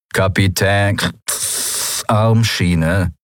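slightly metallic mechanical rasp through a helmet grille; a hollow, rushing machine voice behind a helmet; robot voice muffled by a helmet; distorted machine voice. Acted. Machine voice speaks.

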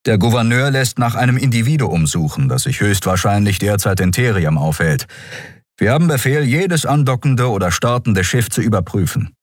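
formal, matter-of-fact guard giving the rules; dutiful sergeant. Acted. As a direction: sergeant briefing a captain, lightly voiced and official. Official sergeant explains orders.

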